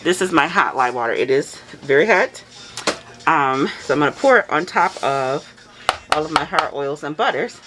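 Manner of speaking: muffled through a face mask. Real, not acted. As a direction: talk behind a mask, muffled. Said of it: "if I sound muffled".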